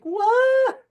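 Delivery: loud, very high startled yelp; a young musician stunned by praise; shocked shout. Retold or imitated. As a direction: blurt it out in pure disbelief. Reacting to a famous singer liking your music.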